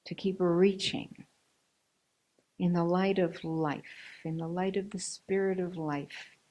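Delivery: slow, measured charge with long pauses; closing benediction. Acted. Speaker sending listeners on to keep walking, measured benediction. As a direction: let each phrase stand alone, unhurried.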